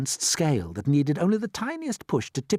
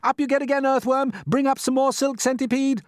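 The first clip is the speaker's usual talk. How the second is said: shouted orders; 13 semitones higher, 5 dB louder than usual. Acted. James ordering the crew.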